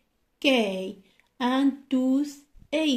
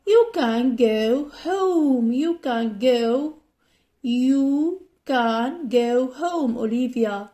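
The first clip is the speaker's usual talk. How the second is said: teacher role; 3 dB louder, slower than usual. Acted. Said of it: "role play".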